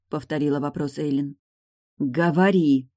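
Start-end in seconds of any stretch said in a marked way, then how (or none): 2.0-2.9 through teeth. A narrator's reading. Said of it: "сквозь зубы процедила Тильда".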